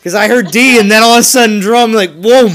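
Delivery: loud, high, words tumbling out; telling friends what just happened, excited; excited retelling. Real, not acted. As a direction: relive the moment, full of energy. Excitedly recounting the play.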